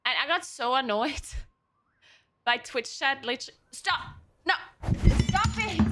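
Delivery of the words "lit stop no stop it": sharp, high, loud "stop it" at the cat; scolding shout. Real, not acted. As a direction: yell at the cat to quit it.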